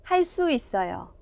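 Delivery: 할 수 있어요 with 수 tensed to 쑤, softly; tensed consonant demo. Shown as a demonstration. Teacher models 할 수 있어요 for learners, tensed 쑤. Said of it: "phát âm theo cô Kim".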